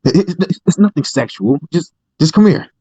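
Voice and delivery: high, pleading creep voice; creepy high voice. Acted. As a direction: lure them over, voice up high. Creepy role-play voice.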